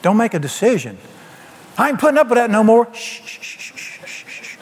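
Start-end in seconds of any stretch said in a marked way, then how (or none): 1.8-2.9 mock outburst. 2.9-4.6 very soft unvoiced shh; breathy hushing to calm down; whispered shushing. Shown as a demonstration. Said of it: "be quiet".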